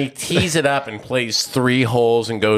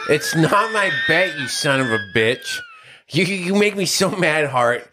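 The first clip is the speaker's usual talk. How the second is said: higher mock yell at a buddy; mock outrage; 8 semitones higher than usual. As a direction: shout in playful outrage, pitch up. Teasing friend blames him.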